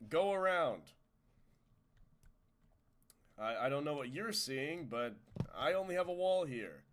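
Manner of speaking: loud teasing call through the wall. Retold or imitated. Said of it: "I like to say".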